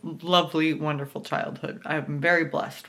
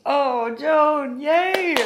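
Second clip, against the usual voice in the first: high, loud happy cheer; 10 semitones higher, 7 dB louder, much slower than usual. Real, not acted. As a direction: cheer her on. Cheering for the character.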